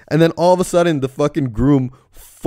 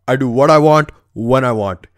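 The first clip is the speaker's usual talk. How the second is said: gangster catchphrase. Retold or imitated. Gangster taunting the news camera, lightly mock tough. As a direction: toss it off like a cocky movie gangster. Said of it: "he does his gangster catchphrase".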